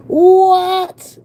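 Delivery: high, loud stunned squeal; shocked what. Real, not acted. Vlogger stunned by the monthly note, squealing. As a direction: squeal it in disbelief. Reacting to payment price.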